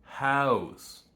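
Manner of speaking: "House" with the Canadian vowel as in mouse. Shown as a demonstration. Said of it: "The vowel in Canadian house is the same one used in mouse".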